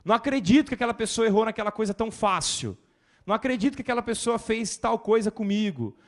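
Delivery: loud, high indignant mock; a judgmental member loudly outraged; indignant complaint. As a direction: exclaim in outrage at others.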